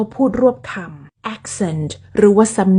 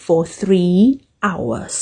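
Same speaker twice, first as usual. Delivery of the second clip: fast native speech; 2 semitones lower, much slower than usual. Shown as a demonstration. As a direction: run it together like a native. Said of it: "ขึ้นต้นก็ยากแล้ว". (พูดรวบคำแบบฝรั่ง)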